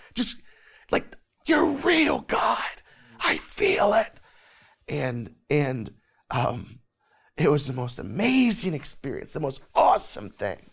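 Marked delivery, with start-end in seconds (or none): 1.5-4.2 very high, overwhelmed, joyous scream. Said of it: "I remember literally screaming in my room".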